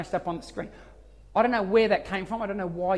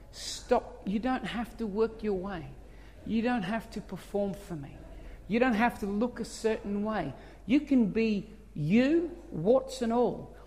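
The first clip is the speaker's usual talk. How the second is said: tender, slow divine voice; 3 semitones higher, 5 dB quieter, slower than usual. Retold or imitated. God's voice, gentle and slow.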